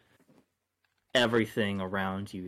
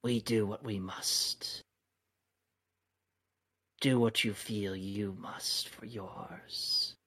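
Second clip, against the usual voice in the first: feral snarling. Acted. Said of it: "She snarls again".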